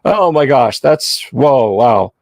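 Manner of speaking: high and fast, flustered surprise; startled T-Rex. Retold or imitated. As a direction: play a dinosaur caught off guard. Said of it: "he just looks startled".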